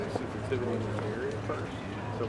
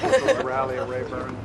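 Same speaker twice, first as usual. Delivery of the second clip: higher and louder announcement; telling the group, louder and higher; excited; 10 semitones higher, 5 dB louder than usual. Real, not acted. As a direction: call it out brightly.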